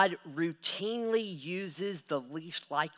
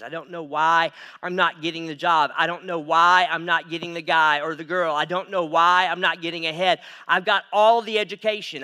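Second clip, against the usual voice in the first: frustrated complaint; 10 dB louder than usual. Retold or imitated. Voicing a frustrated person at the mirror.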